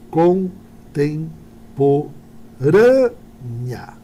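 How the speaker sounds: "contemporânea" stretched very slowly, the stressed syllable "râ" held; slow stressed-syllable demo of "contemporânea"; syllables drawn out. Shown as a demonstration. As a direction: drag out "contemporânea" so they hear the stress on "râ". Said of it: "a minha sílaba tônica".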